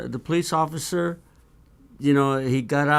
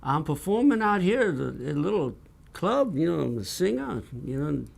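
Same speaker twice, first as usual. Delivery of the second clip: put-on matching Southern accent; 3 semitones higher than usual. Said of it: "just like him".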